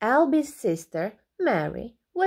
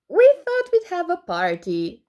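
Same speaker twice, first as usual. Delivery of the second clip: cheery penguin; 9 semitones higher, 6 dB louder than usual. A narrator's reading. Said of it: "said the penguin".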